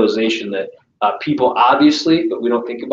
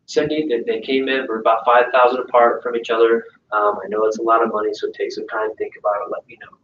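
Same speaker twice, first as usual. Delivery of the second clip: timid soft pitch. Shown as a demonstration.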